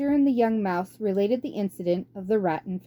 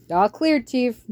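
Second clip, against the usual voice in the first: louder, eager lackey's reply; rat henchman; 4 semitones higher, 5 dB louder than usual. Acted. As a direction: snap back a ready yes to the boss. Henchman answers warlord.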